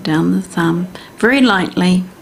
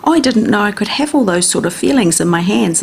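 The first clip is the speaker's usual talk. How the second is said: lightly voiced, higher-pitched amazed inner voice; a hint of the brain's giddy wonder at the touch; delighted brain voice; 3 semitones higher than usual. The brain discovering feelings in the hand, mildly delighted. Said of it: "And the brain is like".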